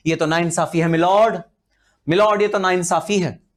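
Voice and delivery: hammed-up film-style protest to the judge; mock filmy courtroom plea. Teacher mimics residents protesting to the judge, mock outrage. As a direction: play the wronged Indian pleading milord. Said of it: "हम हिंदुस्तानी बोलते हैं".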